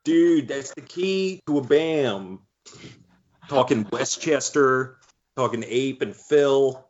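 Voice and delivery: drawn-out Delco dude accent. Shown as a demonstration. Cohost showing how Bam should sound, mock Delco accent. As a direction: lay on slow, stretched Delco vowels. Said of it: "put any Delco stank on that accent".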